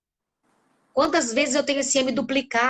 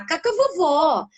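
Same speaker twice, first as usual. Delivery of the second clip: put-on drawn-out, higher toddler phrase; child's intonation; 5 semitones higher, slower than usual. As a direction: show a small child's expressive tune. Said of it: "Olha a entonação que eu fiz".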